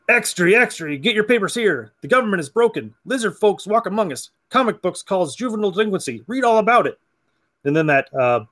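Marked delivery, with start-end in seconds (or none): 0.1-7.0 newsboy cry. Retold or imitated. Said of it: "so he's like".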